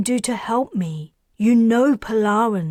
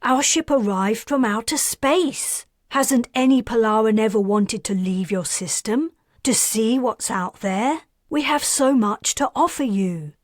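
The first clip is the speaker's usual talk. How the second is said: raised, much higher voice, slowing to hammer the last words; furious outburst; 6 semitones higher, 3 dB louder than usual. Acted. Karis rants at Perseus about Polaran stubbornness, furious and raised. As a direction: vent every frustration at the stubborn aliens. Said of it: "Are you angry?".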